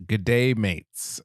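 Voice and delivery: slow greeting in an American accent; unhurried American-accented delivery. Shown as a demonstration. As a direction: read it slowly, in a plain American accent. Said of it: "saying that in an American accent".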